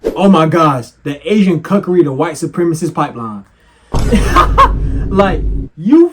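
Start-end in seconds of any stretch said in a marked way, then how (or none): 3.9-6.1 high airy laugh that spills into the words. Real, not acted. Laughing as he turns to address Asians, high and amused. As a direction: crack up before addressing them.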